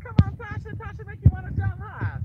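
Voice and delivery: loud, high-pitched cheer; excited hollering. Real, not acted. Host cheering on Tasha, loud excited hollering. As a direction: whoop it up at full voice.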